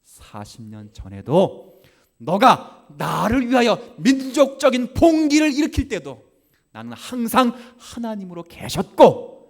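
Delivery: high, loud declaring voice of God; God's voice preached. Acted. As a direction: proclaim it with full force. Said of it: "그 말입니다".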